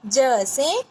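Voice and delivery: each sound drawn out slowly; slow teaching demo. Shown as a demonstration. Teacher modelling slowly for young pupils. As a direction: say it slowly for the children to repeat. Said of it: "बोलिए".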